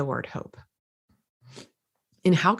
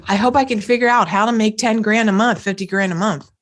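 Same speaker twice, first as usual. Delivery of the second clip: higher, uncertain hoping tone; hope for it without believing it; a tentative wish, pitched up; wishful hoping; 3 semitones higher, 4 dB louder than usual. Shown as a demonstration. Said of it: "Completely different energy".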